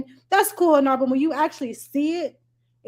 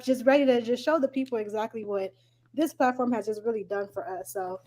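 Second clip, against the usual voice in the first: a little breathless, puffing; out of breath; 3 semitones lower, 5 dB quieter than usual. Real, not acted. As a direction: talk while catching your breath. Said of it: "I'm out of breath".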